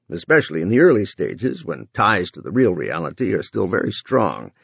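upbeat TV commercial pitch; ad read. Acted. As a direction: sell it like a TV ad. Runciter ad continues.

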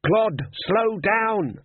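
high, very slow drawn-out shout; frantic yell. Acted. Glodd yelling at the driver to slow down, high and slow. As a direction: call out to the driver in panic.

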